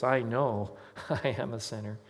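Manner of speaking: "I know" stretched with weight, a break before "I am a sinner"; emphatic confession. Retold or imitated. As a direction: imitate heartfelt emphasis on "know". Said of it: "they always say it with such emphasis".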